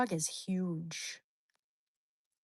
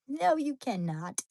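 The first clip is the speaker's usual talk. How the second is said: scolding pet. Retold or imitated.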